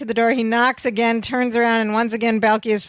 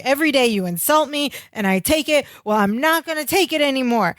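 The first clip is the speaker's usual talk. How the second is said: higher-pitched mock tirade; emboldened lecture; 4 semitones higher than usual. Larry lecturing Twink Cassetti, imitated indignation. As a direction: imitate a worker finally telling off the boss. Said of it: "gets this courage to lecture".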